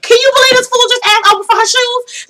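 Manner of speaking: high-pitched gossiping outrage; high retold astonishment; mock disbelief. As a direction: squeal it like a scandalized onlooker. Voicing herself watching from the couch.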